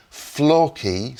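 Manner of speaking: Flowkey with a broad northern English vowel; northern English accent. Shown as a demonstration. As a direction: say Flowkey like a Yorkshireman. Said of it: "said in a very northern accent".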